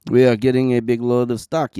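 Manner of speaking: loud hammy echo of the line; mock announcer echo. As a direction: boom it back like a pitchman. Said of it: "you say?".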